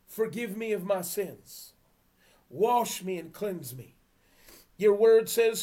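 measured prayer read for repeating. Real, not acted. Preacher leading listeners in prayer, measured. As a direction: lead the prayer line by line.

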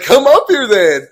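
high, loud, drawn-out re-enacted dare; retold shouted dare. Teller daring the man to come up, shouting. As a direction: replay it as a slow shouted challenge. Acted dare in yelling match.

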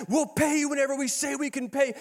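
high, sing-song imitation of a haughty scold; mock her dismissive anger; haughty mocking singsong; mock angry rant. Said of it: "She is letting me have it".

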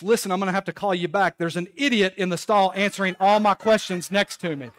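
loud, quick exasperation; annoyed voice. Retold or imitated. Stall neighbor complains to his caller, imitated annoyed voice. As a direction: imitate a fed-up man on a call. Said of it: "say in an annoyed voice".

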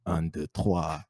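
soft low murmur of the count; mock whisper. Mock whisper to a French girl in the nightclub. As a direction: breathe it low and intimate. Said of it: "whisper in her ear".

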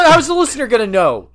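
high squeaky laugh-talk; laughing protest. Real, not acted. Laughing protest, pitch jumps.

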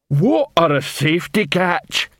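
very slow, dim troll question. Acted. Detritus troll voice.

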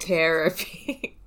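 slow "Therapy" with a hard T, like "terror-py"; terror pun. Shown as a demonstration. Explaining the pun to co-hosts, "Therapy" as slow terror-py. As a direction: draw out "Therapy" so the word terror shows. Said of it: "Like terror".

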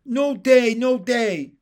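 put-on high, loud, childlike cheer; high-pitched, jubilant holler; gleeful shout. A narrator's reading. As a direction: crow it twice like an excited frog. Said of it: "with glee at every new development".

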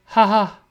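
spoken-out ha-ha; mock laugh. Actress answering a bad joke, mock laughing.

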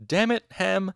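loud, high exasperated burst; angry outburst. A narrator's reading. Master bursts out at his colleague, angry outburst. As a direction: explode at a colleague in narration. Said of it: "Elxadal burst out".

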